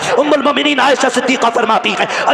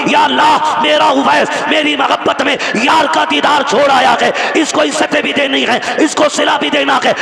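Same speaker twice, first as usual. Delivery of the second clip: raised, pleading prayer to God; mother's prayer; 3 semitones higher than usual. Acted. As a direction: call out to Allah for her son. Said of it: "माँ ने आंचल उठाए और दुआ दी". (ऊँची आवाज़ में माँ की दुआ)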